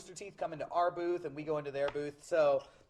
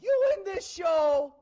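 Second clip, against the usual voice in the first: put-on thick Boston accent; 5 semitones higher, 5 dB louder than usual. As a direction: imitate a pushy kid from Boston. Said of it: "talks with a thick Boston accent".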